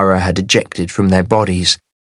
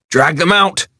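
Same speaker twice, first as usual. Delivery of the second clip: gasped; 8 semitones higher than usual. A narrator's reading. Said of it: "he gasped".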